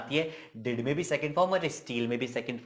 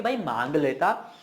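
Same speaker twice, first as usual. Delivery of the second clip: drawn-out "दे देता मैं"; slow, swooping emphasis; insistent reproach; slower than usual. Acted. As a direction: stretch it out as a reproach to a friend. Acted reproach to friend.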